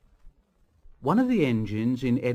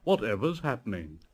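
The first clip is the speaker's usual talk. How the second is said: high, loud squealing cries; screaming silly trucks; 6 semitones higher, 3 dB louder than usual. Acted. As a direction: squeal in alarm like startled trucks. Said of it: "the trucks would scream out".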